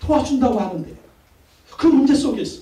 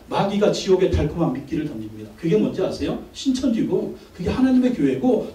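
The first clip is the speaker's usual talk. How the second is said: usual speaking voice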